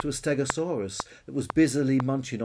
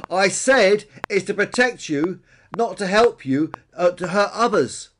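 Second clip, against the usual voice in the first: high, loud, emphatic repeat; exasperated shout; 8 semitones higher, 10 dB louder than usual. A narrator's reading. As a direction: shout it for someone hard of hearing. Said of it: "shouted Billy".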